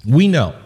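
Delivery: "We" pressed hard, falling firm; stress on WE. Shown as a demonstration. Pastor stresses certainty to the church, firm and falling. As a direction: hit "We" with certainty. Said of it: "We have the certainty".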